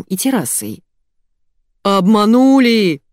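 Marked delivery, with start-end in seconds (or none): 1.8-3.0 loud, higher, stretched-out cry; outraged yell. A narrator's reading. Betrayed boss to his staff, outraged yell. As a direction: yell it slowly and indignantly. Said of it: "заорал Илья".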